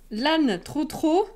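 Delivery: "L'âne trop trop" said slowly, in a mock Toulouse accent with a rising end. Streamer to chat, showing a mock Toulouse accent. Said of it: "avec, euh, l'accent toulousain".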